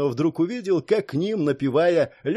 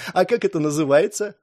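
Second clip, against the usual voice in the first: usual speaking voice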